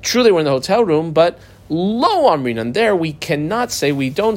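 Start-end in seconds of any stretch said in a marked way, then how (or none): 1.1-2.7 "Lo" slowed and stressed; stressed "Lo" in a measured delivery. Shown as a demonstration. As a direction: punch "Lo", then let "Amrinan" follow. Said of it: "double underline the word lo".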